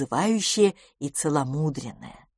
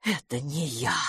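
much softer, stunned denial; stunned disbelief; 2 semitones lower, 7 dB quieter than usual. Acted. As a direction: barely voice it in shock. Pettigrew stunned at mirror. (тихо, ошеломлённо)

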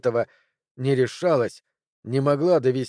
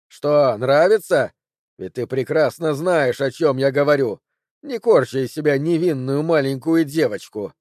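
louder, slowed taunting; cruel taunt; 4 dB louder than usual. Acted. Ted taunting Cori as he crushes her, louder. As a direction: twist the knife with scorn.

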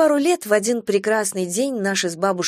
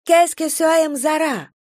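loud question; 9 semitones higher, 3 dB louder than usual. A narrator's reading. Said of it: "громко спросила блондинка".

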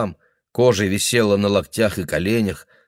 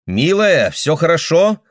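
concerned daughter; 9 semitones higher, 6 dB louder, slower than usual. Acted. Daughter calling through door.

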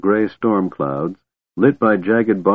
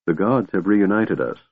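gentle. Acted. Goldmoon to Tanis, gently reassuring. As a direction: ease him with a gentle word. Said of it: "Goldmoon said gently".

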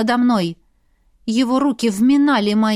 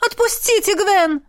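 alarmed maid; 8 semitones higher than usual. Acted. Noni voiced.

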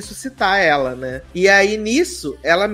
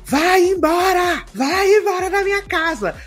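hammed-up command; 12 semitones higher than usual. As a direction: order the ghost out in a mock heroic voice. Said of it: "e fala assim". (ordem teatral e aguda, devagar, expulsando o fantasma)

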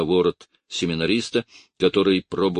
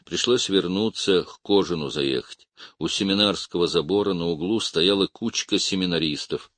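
ordinary delivery

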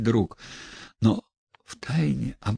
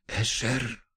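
softer, secretive hush; whispering in the ear; 5 dB quieter than usual. Acted. Stepan Trofimovich hushes close to the narrator's ear. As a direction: lean in and hush the name. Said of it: "зашептал он почти на ухо".

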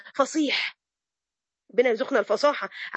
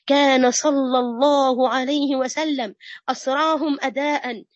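solemn preaching; much slower than usual. Acted. Preacher extolling the Prophet to her students, slow and solemn. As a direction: stretch each word like a sermon.

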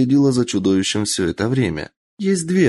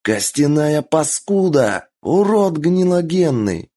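berserk rage; 7 semitones higher, slower than usual. Acted. Юдо raging after escape.

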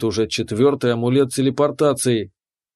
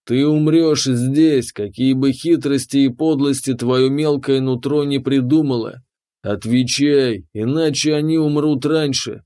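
booming dragon. Acted. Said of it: "прогремел дракон".

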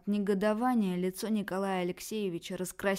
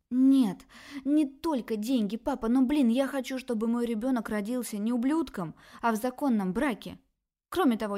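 louder, higher defiant outburst; defiant daughter; 4 semitones higher, 6 dB louder than usual. Acted. Daughter defends her lover to her parents, loud and defiant. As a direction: defend her prince, heated.

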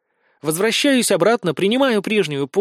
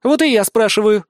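higher, louder ringing retort; 5 semitones higher, 5 dB louder than usual. A narrator's reading. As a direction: cut in brightly. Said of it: "перебивает Нелли звонко".

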